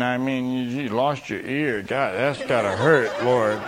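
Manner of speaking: slow, halting parody prayer; mock intercessory prayer. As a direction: pray awkwardly, drawing out the words. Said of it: "how we would have prayed for the leper".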